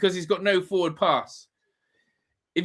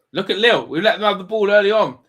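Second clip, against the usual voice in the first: loud rant; 6 dB louder than usual. Real, not acted. Fan ranting at own team.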